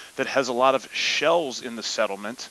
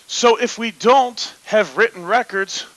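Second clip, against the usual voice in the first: football announcer voice; 9 semitones higher, 7 dB louder than usual. Pretend. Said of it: "Nolan football announcer voice".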